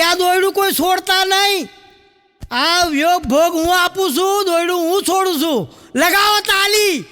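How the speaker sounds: heroic shout. Retold or imitated. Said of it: "એમને જોરથી બૂમ પાડી".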